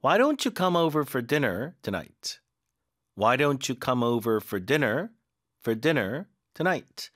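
very slow, stress on "don't"; slow model question. Shown as a demonstration. Teacher modelling an invitation question slowly. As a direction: read the question slowly, clearly. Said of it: "이렇게 질문으로 만들 수도".

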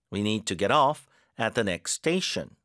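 whole sentence slow, "off" stressed; careful model read, "off" punched. Shown as a demonstration. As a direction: drill it slowly with the push on "off". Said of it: "뒤에 힘 잘 주시고".

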